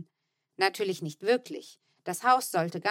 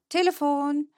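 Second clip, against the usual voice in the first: higher, louder exclamation; sudden call; 6 semitones higher, 5 dB louder than usual. A narrator's reading. Manne suddenly calling out on his way to the hall. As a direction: call out abruptly, already leaving. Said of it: "Plötzlich rief er".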